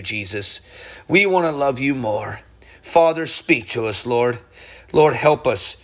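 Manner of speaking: steady, reverent praying voice, addressing God; earnest prayer. Real, not acted. Preacher praying for Ukraine and the sick, reverent.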